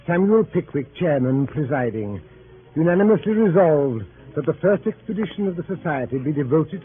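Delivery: stately, formal reading of a club minute; solemn clerk reading the minutes aloud; formal proclamation. Acted. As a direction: read it like an official resolution. Reads club resolution formally.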